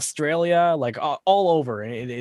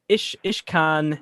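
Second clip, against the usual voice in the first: slow, careful attempt at German; halting recall; much slower than usual. Real, not acted. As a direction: grope slowly for rusty schoolroom German. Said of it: "I'm downloading back to my brain stuff from high school".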